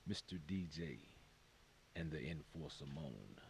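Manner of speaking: monster voice. Acted. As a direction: roll the names out like a lurking monster. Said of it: "this monster voice you're using right now".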